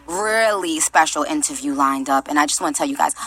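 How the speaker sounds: low, tender sign-off; sincere affection. Real, not acted. Thanks listeners before a break.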